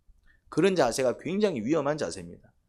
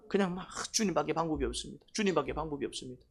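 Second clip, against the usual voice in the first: soft imitated plea; 7 dB quieter than usual. 기도하는 사람의 간구 흉내.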